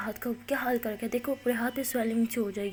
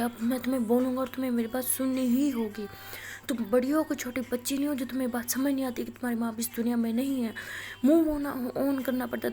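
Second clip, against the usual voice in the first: retold angry yelling. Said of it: "زور سے چیخ رہے ہوتے ہیں".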